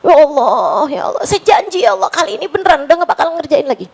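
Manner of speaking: fast, tearful promise to God; a sinner crying as he swears never again; tearful pleading prayer. Retold or imitated. Preacher retelling his tearful vow, crying. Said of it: "Nangis lagi".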